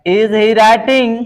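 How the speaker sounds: each word slow and spaced; teacher spelling out a sentence; slow dictation. Shown as a demonstration. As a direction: dictate it slowly for the class. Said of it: "slow dictation of English".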